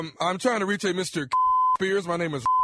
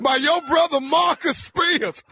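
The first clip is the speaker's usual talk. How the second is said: excited reveal; 8 semitones higher, 4 dB louder than usual. Real, not acted. Prank reveal, laughing.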